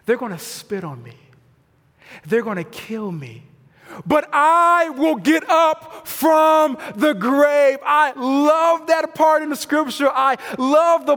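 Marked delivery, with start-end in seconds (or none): 0.0-3.4 secret whisper. Retold or imitated. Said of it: "Christ pulls his disciples aside". 4.0-7.8 slow, rising and louder victory line; triumphant declaration. Retold or imitated. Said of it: "he says to him".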